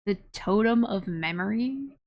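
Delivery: slow, drawn-out totem; amused quote. Acted. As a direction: savour the word totem, slowly.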